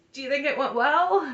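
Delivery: mock high voice, near tears. Retelling what a woman said to a man, imitating someone near tears. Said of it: "she sounds like she's about to cry".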